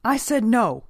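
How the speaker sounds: loud, high angry outburst; thundering. A narrator's reading. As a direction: thunder the refusal to silence him. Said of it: "thundered the minister".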